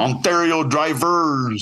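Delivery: put-on slow, drawn-out Quebec accent on Ontario drivers; a lighter Quebec accent; Quebec accent English. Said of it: "my Quebec impression of someone speaking English".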